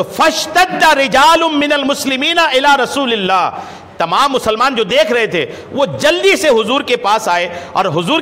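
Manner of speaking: high, emphatic preaching voice; declaimed hadith narration. Acted. Companions rush to tell the Prophet, declaimed high by the preacher. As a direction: raise the pitch and proclaim the companions' words.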